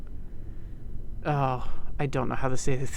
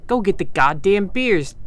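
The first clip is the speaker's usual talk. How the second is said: gruff order; 5 semitones higher, 6 dB louder than usual. Acted. Gangster ordering beers.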